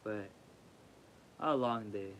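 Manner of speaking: drowsy voice of someone tired; sleepy. Real, not acted. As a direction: talk like you just woke up. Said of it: "I'm a little bit sleepy".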